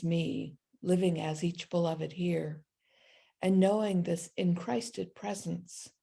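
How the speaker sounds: calm, unhurried prayer, resting on each phrase. Acted. Pastor leading the congregation into prayer, in a calm prayer voice.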